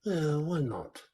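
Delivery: a touch of slow, easygoing Jake; lazy affectionate drawl, lightly voiced; mellow Jake. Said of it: "I like mellow Jake".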